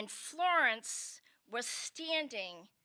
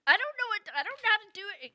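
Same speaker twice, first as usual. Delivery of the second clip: put-on flustered teen; 8 semitones higher, much faster than usual. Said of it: "My grandfather's like".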